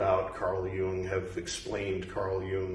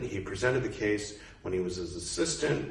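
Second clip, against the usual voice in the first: ordinary talk, nothing marked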